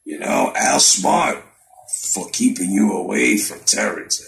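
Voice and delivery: lightly voiced mock Arum; a hint of sly old promoter. Vlogger doing Arum talking to Spence, mild mock voice. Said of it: "let me do the Arum voice".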